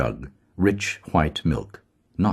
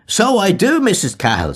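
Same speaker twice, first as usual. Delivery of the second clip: high, coaxing crone voice; wheedling old woman; 5 dB louder than usual. A narrator's reading. Mulligan still wheedling as the old woman. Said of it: "went on hewing and wheedling".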